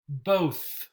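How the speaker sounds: Both. con th final sorda y aire; voiceless th. Shown as a demonstration. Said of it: "think and bath and both and three".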